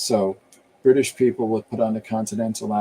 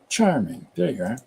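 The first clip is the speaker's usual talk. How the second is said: BBC accent. Shown as a demonstration. Showing listeners how you say it, in a BBC accent. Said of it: "The B B C accent".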